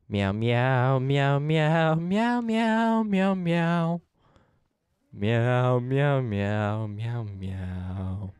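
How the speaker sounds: lazy sing-song cat meows, fading away at the end; silly cat noises trailing off; playful meowing. Pretend. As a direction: meow at the animals like a bored cat. Streamer meowing at game animals.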